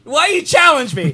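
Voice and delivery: mock-aggrieved protest. Real, not acted. Protests being dared to redo impression.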